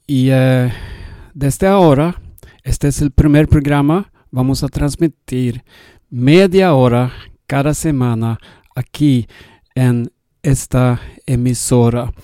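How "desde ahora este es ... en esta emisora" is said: Swedish accent. Real, not acted. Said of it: "Yo soy sueco y hablo un poco español".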